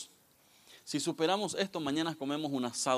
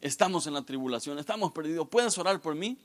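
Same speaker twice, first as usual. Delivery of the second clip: put-on panicked young man; 5 semitones higher, 4 dB louder than usual. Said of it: "Me dice".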